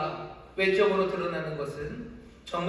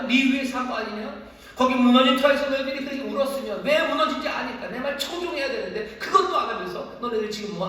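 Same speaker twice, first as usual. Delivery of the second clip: raised, heated voice of a wounded God; higher, louder, agitated rebuke; emotional outburst; 5 semitones higher, 3 dB louder than usual. Acted. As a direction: voice God's rising indignation. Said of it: "주님은 왜 이렇게 감정적으로 지금 복받쳐서".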